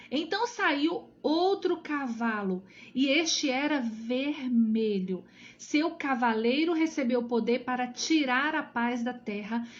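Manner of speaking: deliberate, dramatic Bible reading; scripture reading. Acted. Teacher reads the horsemen verses aloud, dramatic scripture reading. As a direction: read out the verses emphatically, stretching key phrases.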